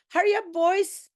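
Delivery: high, calling out to the men; police call. Acted. Policeman calls his men to hurry up. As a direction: urge the men on.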